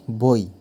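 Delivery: বই slowly, with the weight on ব; stress on first sound. Shown as a demonstration. Teacher demonstrating stress on বই for the class, slow and pressed on ব. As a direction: draw out বই and press the ব. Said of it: "বই উচ্চারণের সময় ব অক্ষরের ওপর বেশি জোর".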